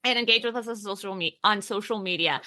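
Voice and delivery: lisping through a retainer; wearing a retainer. Real, not acted. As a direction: talk around a retainer on the teeth. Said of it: "I've got my retainers in again, so those S's are, like, a struggle for me".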